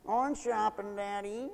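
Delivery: soft whiny singsong to daddy; mock whine. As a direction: whine it like a spoiled child. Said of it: "just sort of whine goodbye and say".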